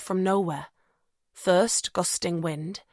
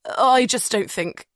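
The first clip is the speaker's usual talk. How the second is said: slow, halting stutter; 4 semitones higher, 4 dB louder than usual. Acted. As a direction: stumble over the words. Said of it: "Julian stutters".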